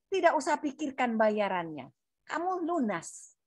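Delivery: soft, settled comfort, dropping in volume; retold reassurance. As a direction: gently let them off the hook, slowing at the end. Counsellor reassures client about payment.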